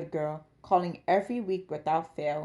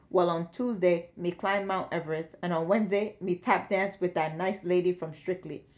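daughter lightly imitating a Jamaican father; light mock Jamaican lilt; mock Jamaican impression. Daughter mimicking her Jamaican dad's voice. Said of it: "His daughter's impression of him had been note perfect".

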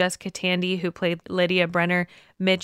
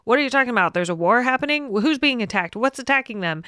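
higher-pitched bewildered bystander; mock alarmed questioning; 5 semitones higher, faster than usual. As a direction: imitate nosy strangers firing confused questions. Imitating bystanders butting into conversation.

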